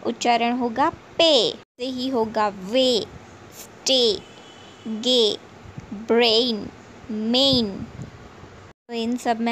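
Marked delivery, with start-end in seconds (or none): 1.2-1.5 पे with a long, drawn-out "ay"; long vowel. Shown as a demonstration. Teacher demonstrating the long A sound to English learners, पे drawn out. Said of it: "लंबा उच्चारण देता है". 2.5-7.7 वे, स्टे, गे, ब्रेन, मेन each with a drawn-out "ay"; long vowel. Shown as a demonstration. Teacher reading examples of AY and AI, वे to मेन with long vowels. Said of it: "वो लंबा खींचा जाता".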